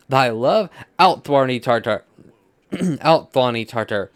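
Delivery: loud acted rejection; stage yelling. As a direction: throw the lover out in mock fury. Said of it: "Everybody is just yelling at this point".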